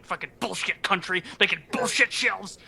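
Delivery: podcast host playing an angry customer ranting at Sweden; mock rant. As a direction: rattle off the curses like a fed-up builder. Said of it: "Mad at, like, Sweden".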